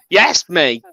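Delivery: lightly put-on British "mate"; mildly imitating a British accent; Heckma's British impression. Podcaster mimicking a co-host's British attempt, lightly put-on British accent. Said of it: "That's Heckma's voice".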